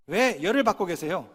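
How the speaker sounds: normal talking voice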